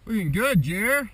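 loud encouraging call; shouted cheer. Real, not acted. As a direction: cheer him on across the slope. Cheering a skier from afar.

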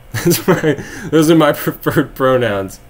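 slow, giggling through the words; laughing. Real, not acted. To chat after his rude pronoun joke, laughing. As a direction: laugh out the punchline.

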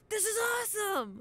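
high-pitched gleeful exclamation; thrilled. Acted. Young detective at the bizarre warehouse, thrilled. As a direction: exclaim it high, full of wonder.

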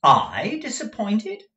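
high, loud and slow disbelief; "I disappointed?" cried out high and loud; startled cry. Acted. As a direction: cry out, stung by the suggestion. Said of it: "cried Nicholas".

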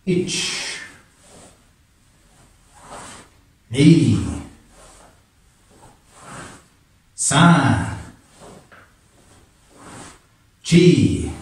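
slow martial arts count. Real, not acted. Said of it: "to the count, nice and slow".

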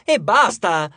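loud, exasperated snap; outburst. A narrator's reading. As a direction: cut them off loudly, fed up. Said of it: "sbottò Hazel".

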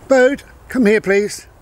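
high, loud call to the dog. Real, not acted. Owner calling the dog Bode back to him, high and loud.

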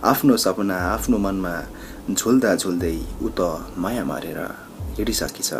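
declaimed verse, pausing between phrases; poem recitation. Acted. Migrant worker's lament for home and lost love, recited as a poem. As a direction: launch each line strongly and let it fall away.

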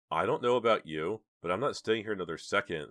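scared. Acted. Scared girl wants to leave.

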